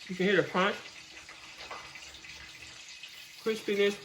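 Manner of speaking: talking through a mouthful of chicken; chewing while talking; mouth full. Real, not acted. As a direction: speak around a bite of food. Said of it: "talking with my mouth full".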